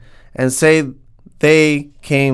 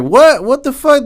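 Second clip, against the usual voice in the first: high, loud incredulous outburst; imitating stunned parents, pitch jumping up high; shocked parents; 11 semitones higher, 4 dB louder than usual. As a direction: parents blurting out in disbelief. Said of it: "They, they were like".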